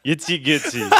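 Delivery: lightly put-on Eastern European gibberish; mock Eastern European nonsense words; vaguely Eastern European. Comedian repeating his reply to the tout, in fake Eastern European. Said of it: "a vaguely Eastern European made-up language".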